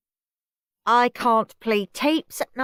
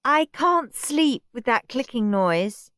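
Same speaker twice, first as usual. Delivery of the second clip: whiny Margaret; 6 semitones higher than usual. Acted. Margaret complaining at bedtime.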